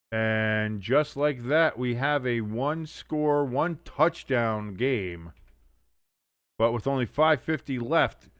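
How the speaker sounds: slow, measured broadcaster summary; slow announcer read. Acted. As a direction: let the moment land slowly.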